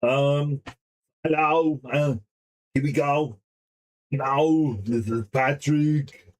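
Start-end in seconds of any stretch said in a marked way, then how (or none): 4.1-6.3 slow, dopey Patrick Star voice; slow audition take of a dim starfish. Retold or imitated. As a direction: stretch the words out like a dim starfish. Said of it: "I'm trying to do the voice".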